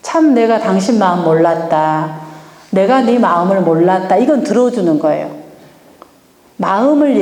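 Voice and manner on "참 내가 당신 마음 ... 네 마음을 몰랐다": sincere demo. Shown as a demonstration. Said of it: "어떻게 한다?".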